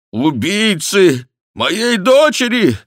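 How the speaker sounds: очень высоко, громко и медленно; вопль обезумевшего отца; отчаянный крик. A narrator's reading. Барон в отчаянии кричит. (отчаянный крик)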